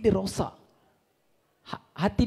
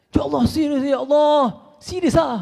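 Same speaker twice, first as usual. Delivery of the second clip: higher, louder alarmed cry; mock panicked reaction; 5 semitones higher, 4 dB louder than usual. Showing how we would react to bad news, with a higher, louder alarmed cry. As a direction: play the ordinary man who cannot believe it.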